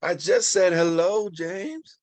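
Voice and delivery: high, loud indignant retort; defensive shout. Acted. Leonard defending himself to James, indignant shout. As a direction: push back, offended.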